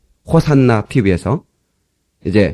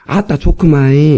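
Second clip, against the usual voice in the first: drawn-out Jeolla dialect refrain; 전라도 사투리 추임새; slower than usual. Shown as a demonstration. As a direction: model a slow Jeolla response for the congregation. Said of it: "이렇게 해야 되고". (전라도 말로 늘여서 추임새)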